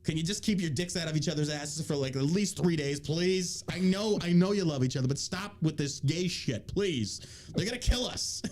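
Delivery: put-on New York accent, exasperated pleading; New York man. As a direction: plead with the team like a fed-up New Yorker. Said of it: "I don't know why I'm a New York man".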